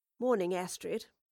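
ordinary delivery

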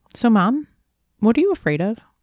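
blunt, plain, matter-of-fact, quick and high. A mother retelling her son's question on their evening walk: imitating Wu's matter-of-fact tone. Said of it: "He has a very matter-of-fact way of talking".

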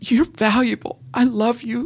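very high voice, catching and choking, choked up. Retelling a line said to her during a scene: retelling words said choked up. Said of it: "my voice chokes up".

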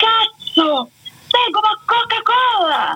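mock shrill yell, very high-pitched. Telling how their father reacted on the phone, retelling his shout. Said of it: "aquele grito".

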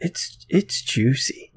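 leering, creepy tone. Asked by another speaker to say a word with feeling, in a creepy, predatory delivery. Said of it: "I didn't say to say it like a sexual predator".

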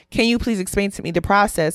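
plain

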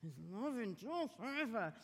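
pretend clenched-teeth delivery. Acting out the listeners repeating a refrain: mock saying through gritted teeth. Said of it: "saying it through gritted teeth".

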